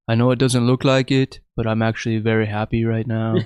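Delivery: level, expressionless delivery; deadpan. Retold or imitated. Fighter on camera insisting he is happy, deadpan. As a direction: imitate a stone-faced man claiming happiness. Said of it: "he's just stone faced".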